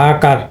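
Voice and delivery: আকার with a long "aa" in "kaar"; long আ sound. Shown as a demonstration. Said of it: "এখানে কিন্তু long আ sound".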